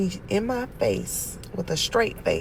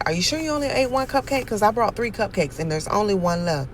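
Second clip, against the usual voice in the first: suspicious questioning; 3 semitones higher, faster than usual. Retold or imitated. Aunt interrogating nephew.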